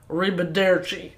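put-on Tennessee-accented Italian farewell; Brad Pitt impression. Host imitating the actor leaving, thick Southern-accented Italian. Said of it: "Brad Pitt goes".

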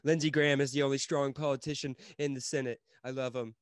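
half-joking Trump voice, bragging about a senator; Trump impression. Host mocks the president for his cohost, lightly voiced Trump. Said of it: "you got a pretty good, uh, Trump impersonation".

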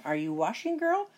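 high witch call, rising. Acted. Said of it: "The witch called through the door again".

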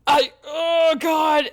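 a frightened half-laughing backpedal; mock panic. Backing out of God's call, in mock frightened protest. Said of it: "And I'm like".

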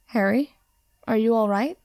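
gently worried; a concerned friend checking on him. A narrator's reading. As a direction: ask with real concern. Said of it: "voice was laced with concern".

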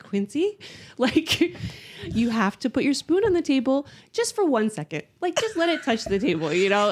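measured, over-patient mommy voice; so calm voice. Retold or imitated. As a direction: keep it calm while coaxing a toddler. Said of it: "so calm voice".

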